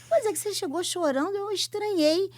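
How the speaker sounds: laughing through the retold line; telling her with a laugh; amused retort. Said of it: "Eu falei".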